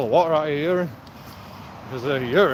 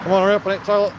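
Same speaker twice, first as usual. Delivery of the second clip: higher, louder call through the door; impatient call; 6 semitones higher, 4 dB louder, faster than usual. Retold or imitated. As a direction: hurry them out, half-joking. Calling mates out of toilet.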